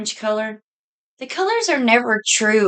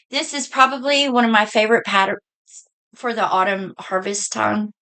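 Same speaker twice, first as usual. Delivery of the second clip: hiccups. Real, not acted. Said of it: "Now I've got the hiccups".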